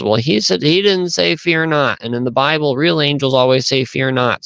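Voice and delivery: a hint of a little girl explaining. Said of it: "the little girl says".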